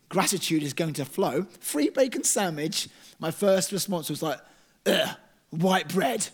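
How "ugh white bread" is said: moaning. Retold or imitated. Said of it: "I just moaned".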